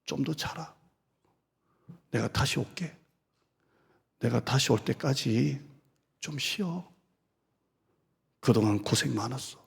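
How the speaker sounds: quiet fatherly reassurance; tender comfort. Acted. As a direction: soothe a tired son. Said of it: "이렇게 말해요".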